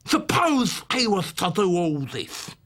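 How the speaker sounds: slow, wheedling Cockney lisp; slow, insinuating old-man lisp; Fagin's Cockney lisp. Acted. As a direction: coax it out like a sly old fence. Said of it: "The Cockney Jewish lisp of Fagin".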